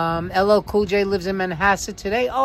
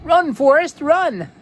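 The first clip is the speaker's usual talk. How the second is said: lightly voiced Forrest Gump cheer, louder and higher; Forrest Gump quote; 8 semitones higher, 4 dB louder than usual. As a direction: call out like the movie, mild imitation. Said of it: "Notice I don't pronounce it Forest".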